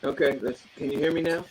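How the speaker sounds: over a landline phone. Real, not acted. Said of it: "sounds like you're on a landline".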